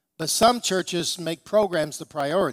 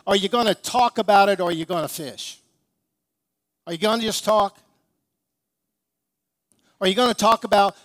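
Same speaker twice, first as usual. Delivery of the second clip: preaching challenge; 3 semitones higher, 4 dB louder than usual. Retold or imitated. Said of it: "this is what I think he would say".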